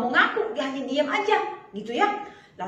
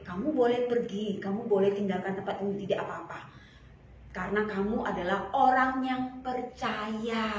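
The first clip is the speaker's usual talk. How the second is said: gentle reassurance; 4 semitones lower than usual. Acted. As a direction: reassure her tenderly. Jesus reassures the woman. (menenangkan dengan lembut)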